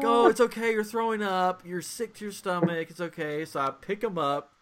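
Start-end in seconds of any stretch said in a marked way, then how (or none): 0.0-3.4 soothing parent. Retold or imitated. Parent soothing sick toddler, retold.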